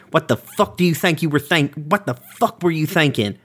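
exasperated yelling at brother; angry. Acted. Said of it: "I push him".

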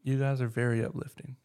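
deadpan compliment that sounds insincere; understated praise, possibly tongue in cheek; sarcastic-sounding praise. Real, not acted. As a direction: say it evenly, as if not quite meaning it. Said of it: "it just seems sarcastic".

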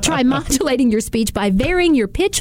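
lifted, swooping expressive pitch; wide pitch range. Shown as a demonstration. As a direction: show off varied pitch. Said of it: "Let's see if I can do this".

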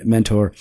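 "mentor" with a full -TOR ending; "mentor" ending in a clear OR sound; corrected pronunciation. Shown as a demonstration. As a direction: pronounce "mentor" as MEN-tor, not MEN-ter. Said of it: "it's pronounced mentor".

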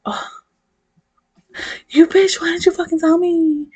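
high, loud mock outrage; indignant outburst. Heroine scolding the alien for hiding his translator, loud mock outrage. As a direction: yell at him in playful fury.

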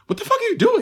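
sudden high disbelieving cry at the screen; high squeak of disbelief at a bad actor; incredulous outburst. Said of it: "I'm just like".

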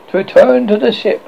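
scheming words pushed through teeth; through his teeth. A narrator's reading. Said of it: "slowly through his teeth".

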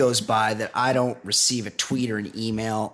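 measured podcast commercial delivery; scripted host-read advert; sponsor ad read. Acted. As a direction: read it as a whiskey endorsement. Reads a whiskey sponsor ad.

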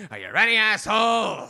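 loud shouted taunt. Acted. Bar woman shouting at the narrator on his knees. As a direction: bark it at him.

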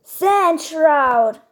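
lightly imitated game attack call. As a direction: announce the attack like a wide-awake character. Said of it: "hört sich einfach auf viel wacher an".

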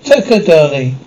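hammed-up Punjabi accent; exaggerated Punjabi accent. Showing off an impression on request, exaggerated Punjabi accent. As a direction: put on an overdone Punjabi accent. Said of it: "what about exaggerated Punjabi accent".

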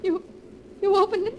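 high, shocked question; frightened and incredulous; alarmed disbelief. Acted. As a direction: recoil in fear as you ask. Wife alarmed letter was read.

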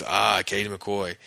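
slow, loaded mock disgust; livid. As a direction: drag the name out, resentful. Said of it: "he's just livid".

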